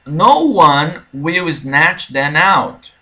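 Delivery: bem lento, cada palavra separada; devagar, palavra por palavra, para o aluno ouvir; slow model reading. Shown as a demonstration. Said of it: "Olha essa aqui". (professor dita a frase devagar para o aluno)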